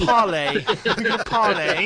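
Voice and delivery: laughing through the word parlay; giggly pirate voice. Acted.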